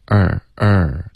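"儿" with a faint uh leading into r; light schwa before r. Shown as a demonstration. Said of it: "前面有一个很轻的呃的音". ("儿"前带很轻的"呃"音)

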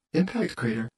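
high, buzzy tiny voice; a small inner voice buzzing the words; lightly voiced buzz; buzzing little voice. A narrator's reading. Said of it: "buzzed Minus".

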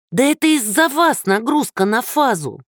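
put-on angry old woman. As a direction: blame him furiously for the power. Old woman blames neighbour angrily.

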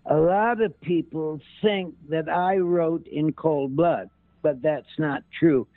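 high, slow, fluttery Capote impression; Reagan doing Truman Capote. Impressionist showing Reagan's Capote impression, high and slow. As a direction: lift the voice up and draw it out as Capote. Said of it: "He, he did".

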